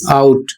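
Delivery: आउट said as "out", an A gliding into U with a final T; आउट as a classroom example word; careful English pronunciation. Shown as a demonstration. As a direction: model आउट with a clear OW glide. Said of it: "इसका उच्चारण होगा".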